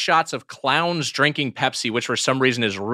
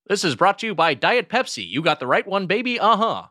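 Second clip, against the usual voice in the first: bad acting; 4 semitones higher than usual. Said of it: "he just delivered it like that".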